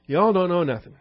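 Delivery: high, sneering know-it-all voice; haughty high priest. Retold or imitated. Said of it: "he is the high priest after all".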